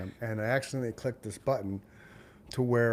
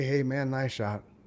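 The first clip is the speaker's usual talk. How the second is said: very casual, slow, easygoing delivery. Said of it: "It's very casual".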